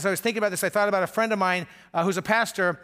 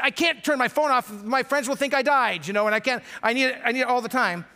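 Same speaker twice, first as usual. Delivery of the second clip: put-on whiny teen; 5 semitones higher than usual. Teenager protesting to parents about turning the phone off, mock whiny. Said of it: "They're gonna say".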